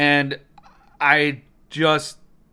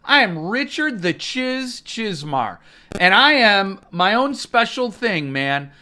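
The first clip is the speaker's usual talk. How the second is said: mock self-important rival; 3 semitones higher than usual. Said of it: "He's saying".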